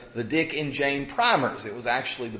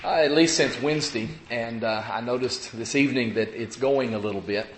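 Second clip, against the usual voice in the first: cough drop in mouth. Real, not acted. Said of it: "I have a cough drop in my mouth".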